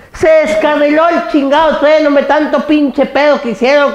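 high-pitched exasperated outburst; mock outrage. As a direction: rant incredulously, pitched well up.

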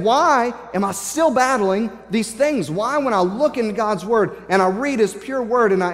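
frustrated questions, preached with rising insistence; Paul. Retold or imitated. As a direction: wrestle aloud with your own failing. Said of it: "I can see Paul getting so frustrated".

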